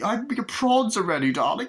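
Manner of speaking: put-on high mother calling her child; mock doting mother. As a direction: put on a fussy parent's high call.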